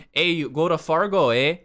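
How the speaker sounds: light mock Fargo accent. Imitating the characters from Fargo, Midwestern accent. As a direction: imitate how they talk in Fargo. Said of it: "they talk like that".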